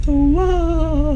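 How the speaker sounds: very high, long cartoon wah; funny Italian falsetto; Mario. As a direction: stretch out a high squeal. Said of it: "it's the Mario wah".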